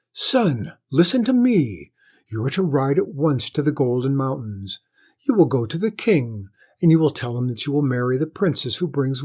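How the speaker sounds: lightly voiced insistent lady; insistent mother. Lady gives her orders.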